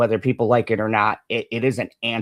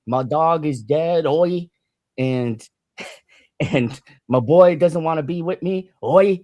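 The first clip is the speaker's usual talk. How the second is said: bad British accent; 2 semitones higher than usual. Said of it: "that was a terrible British accent".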